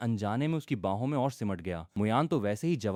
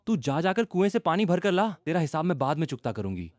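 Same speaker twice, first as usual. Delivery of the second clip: scolding; 6 semitones higher, 3 dB louder than usual. Acted. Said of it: "डांट कर बोली".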